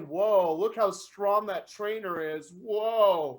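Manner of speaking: low, hushed impressed whoa; awed onlooker. Retold or imitated. Imitating another owner's awe, low and hushed. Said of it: "sitting there going".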